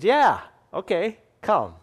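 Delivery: lightly voiced, offhand Jesus saying yeah, okay; casual Jesus. Jesus answering Peter, lightly voiced and casual. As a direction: toss it off easily like a friend. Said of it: "And Jesus said".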